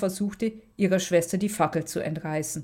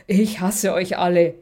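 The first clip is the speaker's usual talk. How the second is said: louder, hateful outburst; mild angry shout; 5 dB louder than usual. Acted. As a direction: throw it at them all, a little louder. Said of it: "rief die Durchgedrehte".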